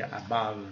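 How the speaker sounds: "above" as a-BUV, weight on the second syllable; low, softly divided "above"; syllable division. Shown as a demonstration. Teacher shows the syllables, careful English pronunciation. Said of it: "dividida silabicamente em inglês".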